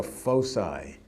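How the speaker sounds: foci said as FOH-sigh; American pronunciation. Shown as a demonstration. Lecturer querying American Latin, foci pronounced FOH-sigh. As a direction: say "foci" with a soft c and a final eye sound. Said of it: "how come we say in America".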